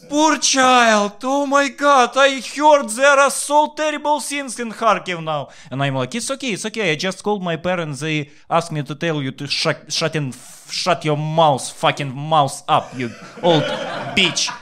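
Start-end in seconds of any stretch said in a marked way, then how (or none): 0.1-5.5 put-on hysterical old lady. Old lady keeps shrieking pity. 6.1-14.5 sweetly reassure, then insult; mock-sweet reply. Mock-sweet reply to old lady.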